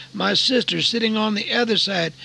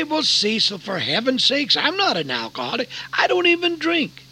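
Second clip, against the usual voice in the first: protesting listener; 4 semitones higher than usual. Retold or imitated. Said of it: "You say".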